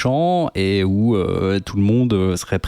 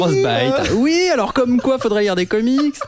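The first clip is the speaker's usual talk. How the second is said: squeaky high voice. Pretend. Jingle-style host intro.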